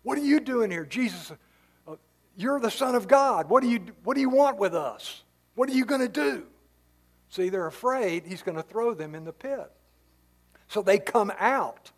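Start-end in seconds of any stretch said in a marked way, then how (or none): 0.0-6.5 higher, alarmed demon voice pleading with Jesus. Acted. Preacher voicing demons spotting Jesus, alarmed and higher. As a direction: play the startled demons, a little panicked. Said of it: "they're all alarmed".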